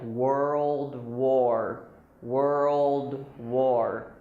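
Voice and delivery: put-on "world war" slowly, WUR-old WOR; joined words. Shown as a demonstration. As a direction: stretch "world" and glide into "war". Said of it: "it sounds like".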